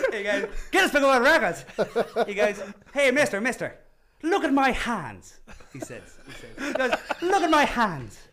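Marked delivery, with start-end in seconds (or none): 0.7-1.6 mock drunken holler, high and loud; drunk dwarf. Drunk dwarf hailing the records man, mock holler. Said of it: "he is, he is hammered". 2.9-5.4 high mock-drunk calling, drawn out at the end; drunk dwarf. Drunk dwarf showing off to the records man, hammed-up holler. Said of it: "he is, he is hammered". 7.2-8.2 high mock-drunk calling, drawn out at the end; drunk dwarf. Drunk dwarf showing off to the records man, hammed-up holler. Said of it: "he is, he is hammered".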